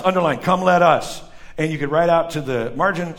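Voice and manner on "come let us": pointed, louder mock proclamation; sarcastic. Preacher has listeners underline God's words, sarcastic. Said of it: "because that's sarcastic".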